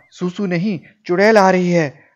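high, loud cry of alarm; child's high-pitched alarmed shout; frightened yell. A narrator's reading. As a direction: yell a warning like a scared boy. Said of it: "ये बोल के जोर से चीखा, इतनी जोर से चीखा".

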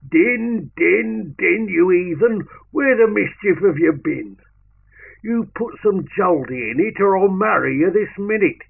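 high, loud, scolding call; impatient shouting. Acted. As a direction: bark at him to hurry up. Soldiers scolding the water-carrier.

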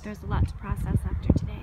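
calm therapist, echoing back gently. Pretend. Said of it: "This is my therapist voice".

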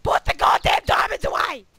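loud exasperated yell; angry shout. Real, not acted. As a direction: yell it at him. Yelling at friend.

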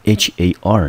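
har said alone as the first syllable; syllable demo. Shown as a demonstration. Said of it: "念成har". (单独示范音节har)

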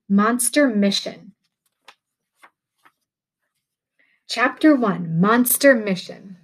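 lively read-aloud storytelling voice; expressive children's book narration; story narration. A narrator's reading. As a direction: tell it like a read-aloud for kids. Teacher reads story aloud.

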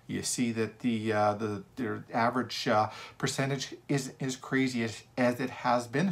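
real stumbling, hesitant delivery; tongue-tied. Real, not acted. Agent stumbling through market figures live, tongue-tied. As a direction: trip over small words with restarts and fillers. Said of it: "a little tongue-tied this morning".

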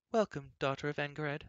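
a bustling, doting queen; fussy queen. A narrator's reading. Queen greets Elenwy.

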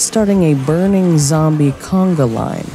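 measured game-trailer voiceover; polished voiceover read; scripted intro narration. A narrator's reading. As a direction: narrate it like an episode teaser, deliberately phrased.

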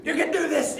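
high, shouted encouragement; inner pep talk. Retold or imitated. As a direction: psych yourself up loudly. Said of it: "something in me thought".

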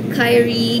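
Kyrie said KAI-ree; Kyrie, opening on an eye sound; mispronounced name. Shown as a demonstration. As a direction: misread the name as English Kyrie. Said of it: "ginagawa nilang care".

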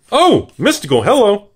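high, loud delighted shout; excited yelp. Real, not acted. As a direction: greet the card with a whoop. Good card revealed.

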